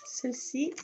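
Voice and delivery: ordinary talk, nothing marked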